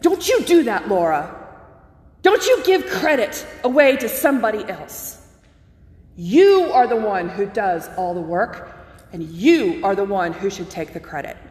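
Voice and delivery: mild mock scolding, YOU leaned on; retold anger. Professor objecting to chaplain crediting God, mildly acted anger. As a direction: imitate an indignant professor, emphatic but held back. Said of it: "he got really angry".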